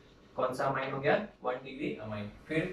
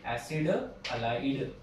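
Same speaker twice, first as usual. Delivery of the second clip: slow dictation; 3 semitones lower, 4 dB quieter, slower than usual. Shown as a demonstration. Teacher repeats name slowly.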